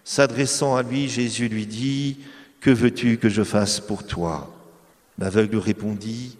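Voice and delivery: slow, measured scripture reading; Gospel reading. Acted. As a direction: read the passage with solemn care. Reads the Gospel passage aloud.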